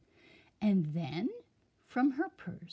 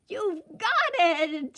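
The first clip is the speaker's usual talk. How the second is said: slow, higher playful giggle; giggling; 9 semitones higher, 6 dB louder than usual. A narrator's reading. Sunshine praising the king, light giggle. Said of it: "she giggled".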